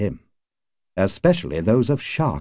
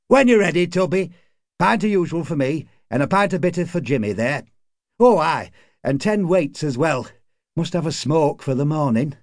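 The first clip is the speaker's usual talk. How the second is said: lightly voiced bar customer, pitched up; pub regular ordering; 7 semitones higher than usual. A narrator's reading. Tommy orders pints from the barman, lightly voiced higher character.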